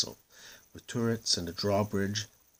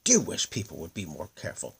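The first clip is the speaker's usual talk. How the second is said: muttering snake. A narrator's reading. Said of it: "it muttered".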